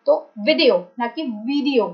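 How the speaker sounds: वीडियो with a short light i, not a long ee; short i versus long ee. Shown as a demonstration. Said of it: "आई में ना हल्की सी sound होती है".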